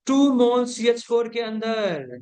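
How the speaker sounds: slow, drawn-out line like a verse; mock poetry recital. Teacher setting a question on moles, in mock poetry recital. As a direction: stretch it out like a couplet being presented. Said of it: "अर्ज किया है".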